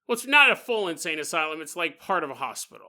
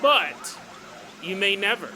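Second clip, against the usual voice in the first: dramatic teaser narration. Acted. Host teases listeners with a paranormal mystery, dramatic narration. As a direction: tease the legend with weighty pauses. Podcast cold open teaser.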